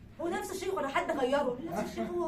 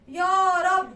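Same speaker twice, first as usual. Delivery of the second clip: sheikh's plea; 3 semitones higher, 11 dB louder, much slower than usual. Retold or imitated. Imitating the second sheikh's prayer.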